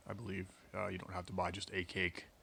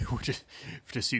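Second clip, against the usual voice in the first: laughing; 5 semitones higher, 6 dB louder than usual. Real, not acted. Laughs at the tea labels.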